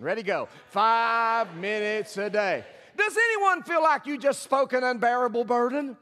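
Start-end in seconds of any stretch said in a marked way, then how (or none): 0.7-2.6 "Five minutes a day" said slowly and firmly; "Five minutes a day" with conviction, every word weighted; with authority. Shown as a demonstration. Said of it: "with great authority and conviction".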